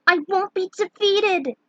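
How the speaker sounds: high, loud battle vow; defiant shout. Acted. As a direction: throw it at death itself. Tara summons all her courage.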